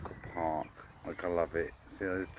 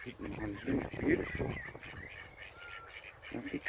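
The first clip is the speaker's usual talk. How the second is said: awed whisper; 3 dB quieter than usual. Real, not acted. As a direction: breathe it out in awe. Admiring duck colours.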